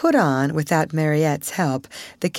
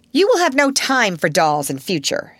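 stern headmistress; 4 semitones higher, 4 dB louder than usual. Acted. Headmistress lays down new rules.

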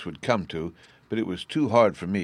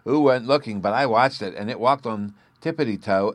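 put-on louder, higher boastful child voice; proud little boy; 4 semitones higher, 6 dB louder than usual. A narrator's reading. Bruno's child voice.

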